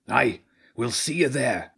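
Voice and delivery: lilting rat mercenary; Zen. Acted. Rat confirms meeting place with children, lilting character voice.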